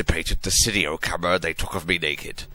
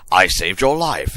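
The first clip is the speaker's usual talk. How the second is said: hammy stage actor; 6 dB louder than usual. Acted. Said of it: "he yelled angrily".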